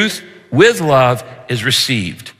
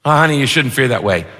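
dismissive husband; faster than usual. Retold or imitated. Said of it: "do you poo-poo the fears".

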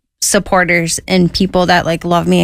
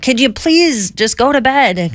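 higher, slow, pleading mock whine; annoyed cellmate; 6 semitones higher, slower than usual. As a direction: drag it out like a tired inmate.

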